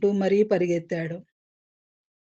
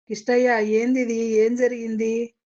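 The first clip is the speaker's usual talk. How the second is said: anxious question; 3 semitones higher than usual. A narrator's reading. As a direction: ask him urgently what happened. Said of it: "ఆతృతగా అడిగింది".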